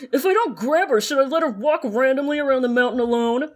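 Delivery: talking through clenched teeth, jaw wired shut; speaking through teeth. Acted. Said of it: "I have to talk through my teeth".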